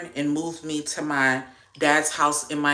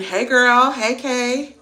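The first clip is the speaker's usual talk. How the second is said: high, loud sing-song hello; excited greeting; 8 semitones higher, 6 dB louder, slower than usual. Real, not acted. Greeting live viewers by name, high and excited.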